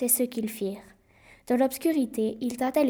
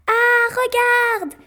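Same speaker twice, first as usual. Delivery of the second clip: high, loud startled shout; sudden high-pitched alarm; alarmed cry; 12 semitones higher, 9 dB louder, much slower than usual. Acted. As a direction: cry out at the avalanche. Avalanche spotted.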